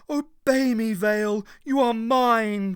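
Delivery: high, loud commanding crone; the Pythia commanding Vale; commanding cry. A narrator's reading. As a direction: command him like an old tyrant. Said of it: "cried the Pythia".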